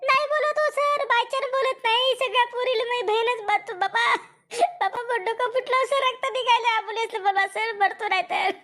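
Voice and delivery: pleading whine. Acted. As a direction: plead with the teacher to stop hitting. Boy begs teacher while beaten.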